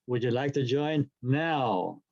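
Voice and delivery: slow, with "now" held long; stress on now. Shown as a demonstration. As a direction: draw out "join now" and let it settle. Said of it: "The third time they come".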